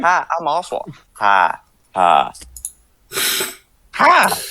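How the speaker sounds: attempted Southern accent. Player voicing his character while struggling with the accent, Oswald's attempted southern accent. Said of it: "can't get into the fucking southern accent".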